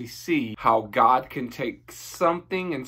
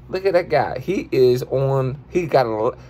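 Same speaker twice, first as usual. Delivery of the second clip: a hint of a goofy guy reacting to a viral video; Dollar character voice. Goofy guy reacts to a viral video, lightly lowered voice. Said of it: "that's your boy Dollar".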